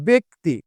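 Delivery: ব্যক্তি said "bek-ti", the ব্য as "be"; pronunciation demo. Shown as a demonstration. Teacher to students, modelling ব্যক্তি with an e sound. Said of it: "এই উচ্চারণটা হয়ে যাবে হচ্ছে".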